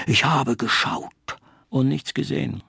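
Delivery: a hint of the tree's voice. A narrator's reading. Tree character voice.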